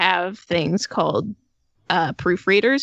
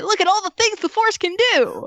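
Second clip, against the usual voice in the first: infomercial pitch; 11 semitones higher than usual. Acted.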